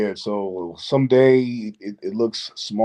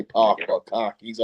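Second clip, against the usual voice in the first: dropped-R Boston "cockies"; Boston accent; slower than usual. Shown as a demonstration. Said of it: "oh, the Boston accent?".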